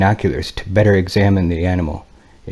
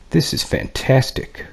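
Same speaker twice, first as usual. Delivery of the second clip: breathless, whispered amazement, slow and high; awed whisper; 5 semitones higher, 3 dB quieter than usual. Acted. Pilot whispering in awe at the strange aircraft, slow whispered wonder. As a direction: hush the words as if you can't believe your eyes.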